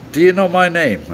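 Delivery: high, laughing challenge; laughing question. Retold or imitated. Asking the musician friend his name, laughing. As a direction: ask it through a laugh. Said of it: "and I said".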